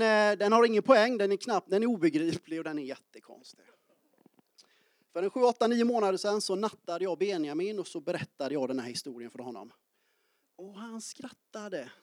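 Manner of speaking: ordinary delivery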